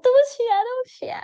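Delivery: high whispered sorry; mock whispered apology. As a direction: imitate her pleading in a high whisper. Friend's apology imitated again.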